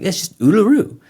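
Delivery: a hint of Aussie on "Uluru", said high and rising; light Australian accent. Australian shopper tells him the name, lightly Aussie. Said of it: "And she's like".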